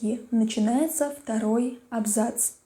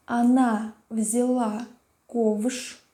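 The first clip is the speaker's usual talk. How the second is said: dictating; much slower than usual. Shown as a demonstration. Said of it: "Записываем".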